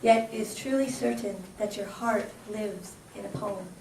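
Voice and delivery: measured, rhythmic reading of rhyming verse; poem recital. Acted. Host honours the poet laureate with a poem, recited rhythmically. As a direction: recite it like a tribute poem on stage.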